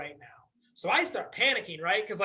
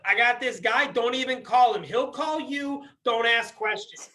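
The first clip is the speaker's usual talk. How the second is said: loud, gruff mobster voice; wiseguy who brooks no questions; Italian wiseguy voice; 4 dB louder than usual. Retold or imitated. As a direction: play the mob fixer.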